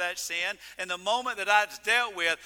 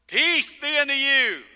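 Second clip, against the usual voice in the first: higher, louder proclaiming of peace; Jesus' greeting; 5 semitones higher, 8 dB louder than usual. Acted. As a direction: announce peace to the stunned disciples. Jesus voiced, Peter scene.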